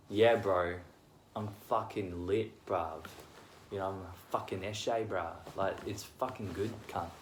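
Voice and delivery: carried-away Aussie eshay bro talk; aussie eshay slang. Shown as a demonstration. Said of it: "I was got a bit carried away".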